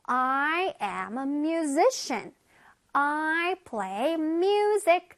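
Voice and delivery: I am a musician, said very slowly and clearly; teacher modelling the sentence slowly; slow model sentence. Shown as a demonstration. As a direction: read each word slowly for children to copy. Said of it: "우리 친구들 해볼게요".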